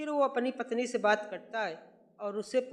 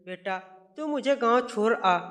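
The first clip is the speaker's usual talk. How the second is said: loud insistent order; mother insisting her son take her to the village; angry demand; 6 dB louder than usual. Acted. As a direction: demand it, no arguing.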